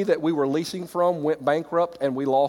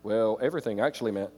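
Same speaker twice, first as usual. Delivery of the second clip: mocking explainer; 7 semitones lower, 4 dB quieter than usual. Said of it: "people wanna explain away everything".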